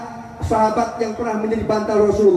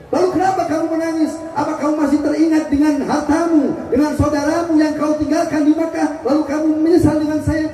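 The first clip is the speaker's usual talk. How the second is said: a slightly raised, concerned questioning voice; gentle Prophet; 4 semitones higher than usual. Acted. The Prophet wakes and asks Abu Bakar, lightly voiced and concerned.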